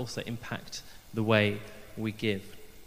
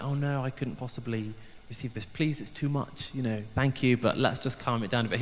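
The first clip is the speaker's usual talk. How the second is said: mock English politeness. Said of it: "get all kind of English".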